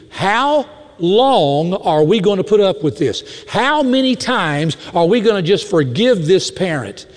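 slow, drawn-out exasperated complaint; mildly acted exasperation; exasperated teacher. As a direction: retell a fed-up teacher pleading for relief. Retold fed-up teacher's complaint.

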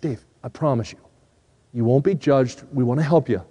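soft pastoral reassurance; reassuring. Retold or imitated. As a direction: quietly reassure someone who feels unworthy. Pastor reassures Dave in retold dialogue.

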